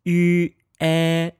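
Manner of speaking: yu, e said as separate slow sounds; sounds spelled out. Shown as a demonstration. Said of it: "if we run the sounds".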